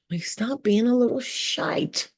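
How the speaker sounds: slow, high sassy scold; mock scolding. Speaker scolding her past self, slow high mock scold. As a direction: drag it out like a scolding.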